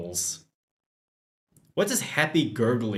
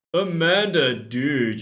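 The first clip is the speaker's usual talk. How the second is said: gym bro; 4 semitones higher, 5 dB louder than usual. Acted. Craig voiced as bro.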